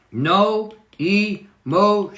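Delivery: "No emotions" stretched out slowly, syllable by syllable; emphatic rule. Real, not acted. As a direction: draw out each syllable of "No emotions" with force. Announcing a key rule emphatically.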